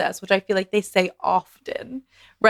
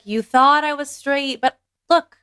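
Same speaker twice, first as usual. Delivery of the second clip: excited reveal; 6 semitones higher, 6 dB louder, slower than usual. Retold or imitated. Acted coming-out quote, gay misunderstanding.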